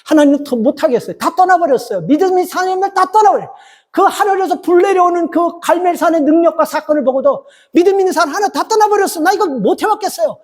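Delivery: high, worn-out complaint that keeps climbing; protesting to God. Retold or imitated. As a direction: Elijah quitting, arguing before God. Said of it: "따지잖아요".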